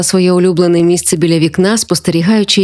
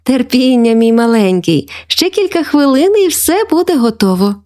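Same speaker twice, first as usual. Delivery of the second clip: lightly voiced granny, pitch lifting higher; indulgent grandma; 5 semitones higher than usual. Grandma asking little grandson for patience, fondly indulgent. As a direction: coax an impatient little one.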